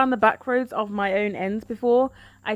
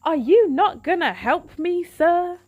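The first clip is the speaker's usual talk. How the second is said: pleading indignation; 6 semitones higher than usual. Retold or imitated. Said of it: "and I'm like".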